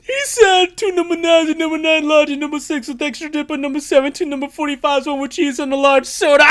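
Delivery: high, loud squeaky order call; drive thru speaker. Pretend. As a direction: shout the order back like a frantic cashier.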